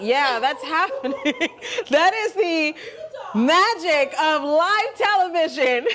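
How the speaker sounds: laughing through the words; trying not to crack up; anchor stifling giggles. Real, not acted. Dog mishap on live TV.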